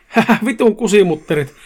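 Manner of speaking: lightly acted gloating yell; shouted taunt. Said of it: "ja huusi".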